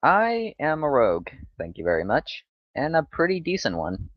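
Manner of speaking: proud retort with big pitch swings; indignant boast. Acted. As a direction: announce yourself grandly, pitch rising and dipping. Rogue answers a slight in character.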